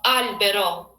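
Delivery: Albero with an unchanged pure O, no English glide; teacher modelling the plain O. Shown as a demonstration. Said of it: "Just, like, plain O".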